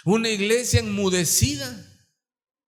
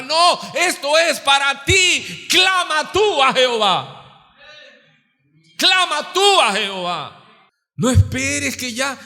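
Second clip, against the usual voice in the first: fervent exhortation; 5 semitones higher, 7 dB louder, slower than usual. Real, not acted. Predicador exhorta con fuerza.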